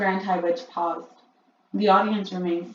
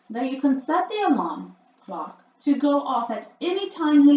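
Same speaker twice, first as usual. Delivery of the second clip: higher, louder commanding witch; Grand High Witch; 4 semitones higher, 7 dB louder than usual. A narrator's reading. Witch announcing her demonstration, high and loud.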